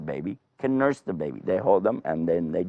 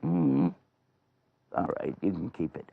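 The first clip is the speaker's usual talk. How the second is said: thinking it over; 3 semitones lower, 4 dB quieter than usual. Acted. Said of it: "he was thinking".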